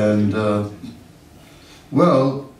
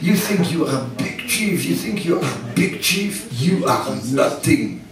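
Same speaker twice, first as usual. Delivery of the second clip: mock French scolding; 3 semitones higher, 3 dB quieter than usual. Devotee yells at the ashram manager, mock French accent. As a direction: replay the stranger's scolding in his accent. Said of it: "he just goes".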